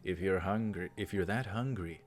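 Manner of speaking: measured visual-novel read-aloud; story narration. Acted. Reads game dialogue aloud.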